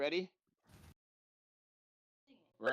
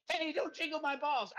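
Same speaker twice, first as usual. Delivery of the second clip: a cheeky fake slip of the tongue; deliberate slip; 6 semitones higher than usual. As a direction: say balls instead of bells, as a naughty slip. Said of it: "I mean, don't jingle my bells".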